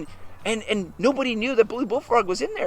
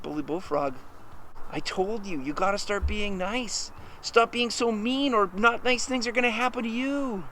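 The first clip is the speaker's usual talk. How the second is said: gentle admonishing; 7 dB quieter than usual. Acted. Junior Bear tells the bully to be nice, gentle admonishing. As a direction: admonish quietly and patiently.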